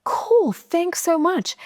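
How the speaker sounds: airy, carefree gratitude; bubbly thanks. Retold or imitated. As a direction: gush a casual thanks. Bright thanks to Avatar.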